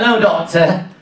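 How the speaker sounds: talking through a chewed toffee; words round a sticky toffee; mouth full. Pretend. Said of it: "he walks to the doctor's like this".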